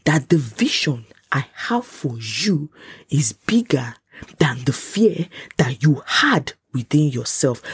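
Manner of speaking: slow, deliberate divine instruction; measured, emphatic dictation; God speaking. Acted. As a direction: spell out a promise word by word, with pauses. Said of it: "He now said".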